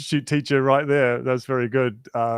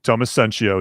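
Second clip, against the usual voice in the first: lower, put-on radio announcer voice; 5 semitones lower, faster than usual. Shown as a demonstration. Reading viewers' names aloud, in a radio voice. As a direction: drop low into your radio voice. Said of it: "Do I put on my radio voice".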